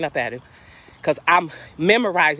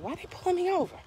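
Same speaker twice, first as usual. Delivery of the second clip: indignant; 13 semitones higher, 9 dB quieter, faster than usual. Retold or imitated. Retelling indignation at being stopped.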